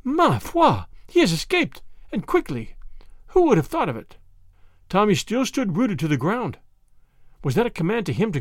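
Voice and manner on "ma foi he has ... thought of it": put-on high, clear girl's exclamation; high-pitched French girl exclaiming. A narrator's reading. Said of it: "Annette's voice clear and high".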